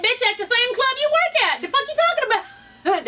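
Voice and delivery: hammed-up furious comeback; mock angry clapback. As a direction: toss it back like a club catfight. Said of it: "Amber said".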